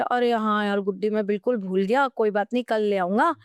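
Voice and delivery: imitating an unbothered husband answering his wife; mildly voiced easygoing father; relaxed, easygoing reply. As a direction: retell it casually, as if nothing happened. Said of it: "पापा बड़े आराम से जवाब दे रहे".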